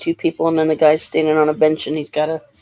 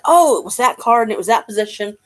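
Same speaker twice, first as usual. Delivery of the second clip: acted realisation; 4 semitones higher, 4 dB louder than usual. Acts out recognising a card.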